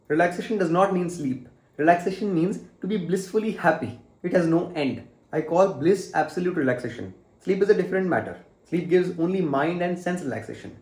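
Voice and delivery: deliberate, slow reading from a book; emphatic read-aloud. Acted. Vlogger reading a yoga nidra page to viewers, emphatic read-aloud. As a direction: read each statement out with emphasis.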